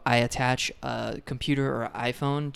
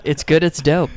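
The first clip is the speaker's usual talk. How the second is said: catchphrase delivery; 3 semitones higher, 7 dB louder than usual. Retold or imitated. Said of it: "It's my catchphrase".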